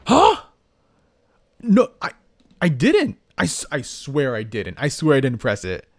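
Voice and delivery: flustered, panicky denial; guilty nervousness. Real, not acted. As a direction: insist you didn't do it, rattled. Denies pressing kill button.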